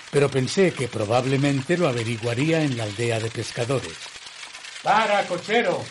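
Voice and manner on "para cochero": calling out. Acted. Calling to stop the carriage.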